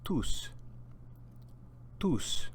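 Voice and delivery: Tus said alone with a clear s; Spanish tus. Shown as a demonstration. Teacher says Tus for students to repeat. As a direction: model Tus crisply. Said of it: "repeat after me".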